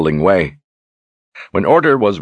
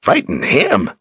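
croaking; 6 semitones higher, slower than usual. Acted. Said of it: "Zed croaked".

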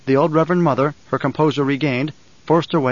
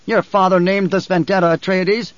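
higher, forceful accusing challenger; Feyd-Rautha, defiant; 5 semitones higher, 3 dB louder than usual. Acted. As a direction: hurl the accusation in a raised pitch. Plays Feyd-Rautha issuing a challenge.

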